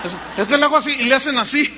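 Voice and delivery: rápido, entre risas y más fuerte; explícalo riéndote de ti mismo; riendo. Real, not acted. Se ríe explicando su grito. (el predicador se ríe de su grito ante la congregación)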